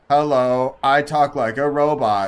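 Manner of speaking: slow, flat robot voice. Retold or imitated. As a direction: drone it like a bored robot. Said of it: "like, unenthusiastic female voiceover".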